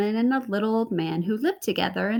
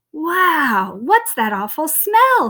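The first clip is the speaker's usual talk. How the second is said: higher, louder disgusted cry; disgusted cow; 6 semitones higher, 6 dB louder, slower than usual. Acted. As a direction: recoil from the stench. Cow reacts to smell.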